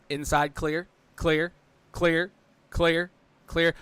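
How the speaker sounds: steady repeated radio calls; spotter T J's calls. Retold or imitated. Spotter T J calls the driver clear, lightly imitated. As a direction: chant each clear evenly. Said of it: "T J just comes on the radio and goes".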